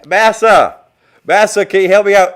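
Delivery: high, loud pleading cry of Massa; a slave begging the master, hammed-up and loud. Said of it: "How did that go out of the plantation?".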